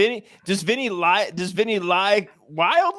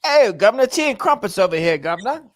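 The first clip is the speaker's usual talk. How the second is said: mock British accent; 2 semitones higher than usual. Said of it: "he now has a British accent".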